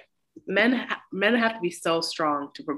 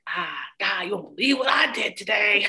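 mock proud voice. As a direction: play a giddy self-satisfied woman. Mocking Stella's boastful voice.

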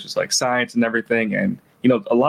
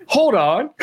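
goofy Reed; 12 semitones higher, 3 dB louder than usual. Retold or imitated. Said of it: "He's just like".

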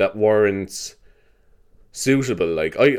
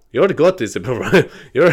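put-on Scottish accent, pitched up; 3 semitones higher, 3 dB louder than usual. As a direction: attempt a Scottish advert voice and stumble. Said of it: "it was on that activity ad".

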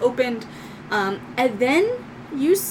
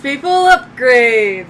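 shouting; 8 dB louder, slower than usual. Acted. GM shouts announcement.

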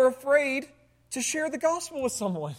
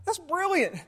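sarcastic thought. Retold or imitated. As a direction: roll your eyes and drip sarcasm. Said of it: "And you're thinking".

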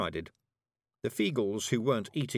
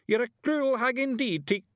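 high, loud Scots accusation cut short; outraged Scottish shout; 5 dB louder than usual. A narrator's reading. Tiny warrior accuses witch of cruelty, outraged shout. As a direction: hurl the accusation, then break off. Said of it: "he shouted".

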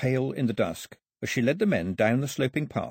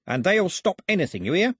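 agitated threat; 10 semitones higher, 4 dB louder than usual. Acted. Nervous crook threatens the girl.

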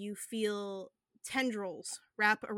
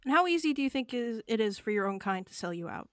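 harsh lecture; 8 dB louder, faster than usual. Acted.

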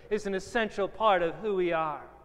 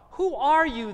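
raised-pitch demand to know; higher, pointed questioning; challenging question; 5 semitones higher, 4 dB louder than usual. Acted. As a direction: put the question higher, as an interrogator would.

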